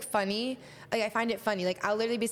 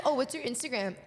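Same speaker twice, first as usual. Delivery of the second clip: higher mock eager stranger; 3 semitones higher than usual. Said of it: "people will be like".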